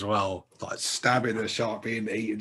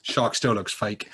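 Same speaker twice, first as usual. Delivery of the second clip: laughing quote. Retold or imitated. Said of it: "and he goes".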